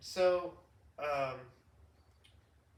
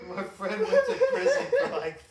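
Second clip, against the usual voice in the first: laughing while talking; 9 dB louder than usual. Real, not acted. Laughing while telling the story.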